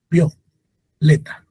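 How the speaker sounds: "Violeta" slowly, "Vio" as one syllable, pause before "leta"; fused diphthong demo. Shown as a demonstration. Teacher showing closed and open vowel fusing, slow "Violeta". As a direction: glide I into O in "Violeta". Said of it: "abierta se fusionan".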